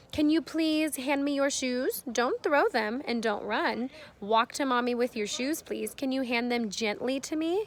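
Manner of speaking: put-on slow, careful request to a child; measured, clearly worded parental asking; clear parent instruction. Shown as a demonstration. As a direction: spell it out slowly for a little one. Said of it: "be as clear as you can be".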